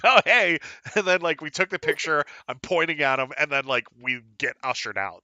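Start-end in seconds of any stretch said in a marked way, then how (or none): 0.1-0.6 quoted greeting. Retold or imitated. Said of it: "And I was like".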